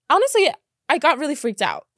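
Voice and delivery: words spilling through laughter; laughing. Real, not acted. Telling viewers about the rats, laughing. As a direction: laugh while admitting it. Retelling rat sighting, laughing.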